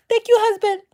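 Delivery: high, cutesy thanks; mock grateful wife. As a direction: gush thanks in a put-on sweet voice. Parody of grateful influencer wife.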